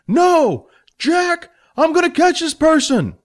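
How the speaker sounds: loud, high defiant refusal; defiant shout. Acted. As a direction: refuse him flatly. Billy refuses loudly.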